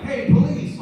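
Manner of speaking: high, loud announcement; mock police shout. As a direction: call out like arriving police. Imagined official call-out.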